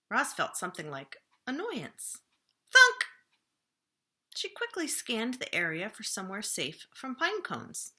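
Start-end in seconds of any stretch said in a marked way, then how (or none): 2.7-3.0 high, loud cartoon thunks. A narrator's reading. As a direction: bang out each thunk high. Another pine cone hits.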